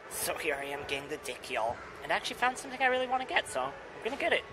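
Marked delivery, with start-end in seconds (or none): 2.0-4.4 excited. Real, not acted. Fast high excited report.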